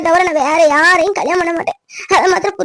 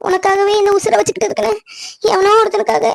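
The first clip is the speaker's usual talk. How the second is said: higher, breaking with sobs; tearful pleading; 3 semitones higher than usual. Acted. Woman begging her doubting cousin to trust her, sobbing. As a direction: beg through tears to be understood.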